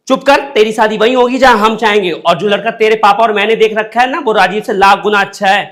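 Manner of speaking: loud stern scolding; scolding mother. Acted. Mother scolding daughter over forced marriage, loud and stern. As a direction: shut the daughter down firmly.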